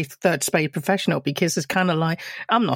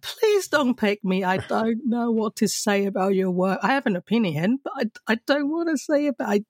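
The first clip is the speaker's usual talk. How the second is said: lightly acted reluctance, climbing higher; acted inner pleading; 3 semitones higher than usual. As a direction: beg silently not to be chosen. Acts out dread in group critique.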